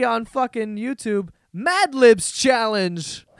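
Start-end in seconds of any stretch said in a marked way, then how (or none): 1.5-3.3 slow disbelief. Real, not acted. Reading the copycat video title.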